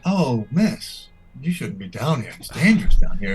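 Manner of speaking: a lightly voiced concerned guard; guard warning. Guard warns the woman away, lightly voiced. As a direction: warn her off gently. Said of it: "One of them's like".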